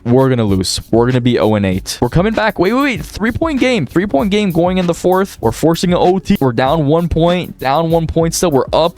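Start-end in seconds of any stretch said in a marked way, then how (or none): 2.0-9.0 excited, higher-pitched live score calls; frantic excitement. Real, not acted. Gamer reacting to a three-point game, frantically excited. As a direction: call the comeback as it swings back and forth.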